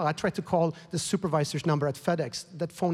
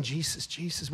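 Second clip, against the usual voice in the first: hushed prayer; 7 dB quieter than usual. Retold or imitated. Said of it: "I remember you saying".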